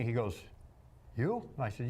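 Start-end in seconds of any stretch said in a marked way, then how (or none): 1.2-1.5 high, disbelieving "You?"; a mock-shocked casting guy squeaks "You?"; incredulous. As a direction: ask it like you can't believe it.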